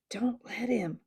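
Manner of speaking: hushed unvoiced whisper. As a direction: whisper it as a warning. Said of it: "whispered Trumpkin to Peter".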